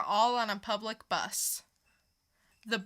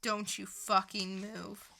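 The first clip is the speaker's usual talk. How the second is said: menacing command; 4 dB quieter, slower than usual. Acted. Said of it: "dramatic reading".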